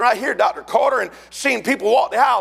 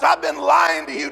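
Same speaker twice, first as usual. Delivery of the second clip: tearful confession; 5 semitones higher than usual. Retold or imitated. Confessing to dad, crying.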